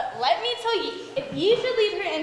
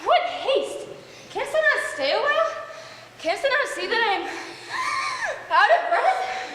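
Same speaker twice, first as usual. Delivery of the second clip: mock breathless; 7 semitones higher, 3 dB louder than usual. Nurse claims to be out of breath.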